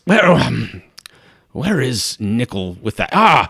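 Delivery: a hint of a flustered lord calling for his servant; Cryolus voice. Cryolus asks where Nickel is, a hint of fluster. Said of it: "And he says".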